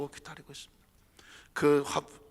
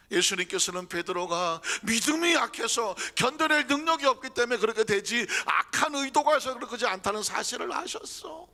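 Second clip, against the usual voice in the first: ordinary talk, nothing marked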